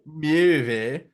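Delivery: "movie" drawn out as "myoovie"; "movie" with an umlauted "myoo", lifted at the end; Swedish-sounding movie. Real, not acted. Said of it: "that's my, uh, Swedish coming out".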